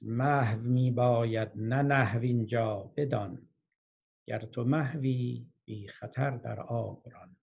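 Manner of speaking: slow, measured verse with weighted key words; poetry recitation. Acted. Teacher quoting Rumi's moral to listeners, slow recitation. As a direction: recite it as a teaching couplet, unhurried.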